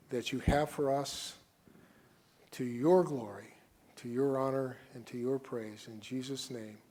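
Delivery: steady, earnest prayer voice; closing prayer. Acted. Pastor closing the sermon praying for the church, earnest prayer. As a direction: pray over the congregation.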